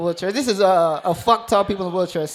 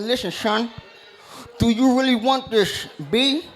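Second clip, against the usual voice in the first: put-on slightly raised New York rapper accent; New York coach. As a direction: imitate a New York rap-group-style coach. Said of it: "sound like he in the Wu-Tang Clan".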